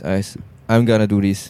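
slurred American gonna; American accent. Shown as a demonstration. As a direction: say "I'm gonna do this" with a relaxed American slur. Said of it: "It's not I'm going to do this".

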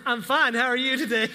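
put-on a kid suddenly on his best manners; eager polite teen. Teen answering the judge, eager and polite. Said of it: "He goes".

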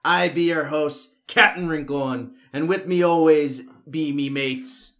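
hearty pirate captain greeting. Pretend. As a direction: ham up the pirate talk. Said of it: "like, a pirate podcast?".

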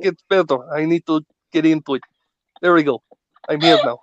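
put-on rough Russian accent warming up; attempted Russian accent. Comic defends his accent attempt, settling into Russian accent. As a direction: ease your way into a Russian accent. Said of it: "this your attempt at a Russian accent?".

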